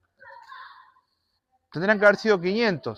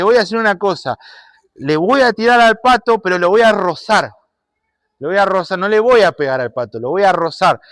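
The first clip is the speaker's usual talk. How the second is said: put-on boy scheming; 3 semitones higher, 4 dB louder than usual. Niño planea tirarle al pato.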